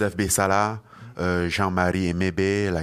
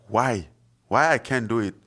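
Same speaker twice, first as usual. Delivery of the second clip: mild indignant protest, retold; defiant questioning; 4 semitones higher, 4 dB louder than usual. Young dreamer answering his family back, defiant questioning. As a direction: challenge it, higher-pitched on the repeated why.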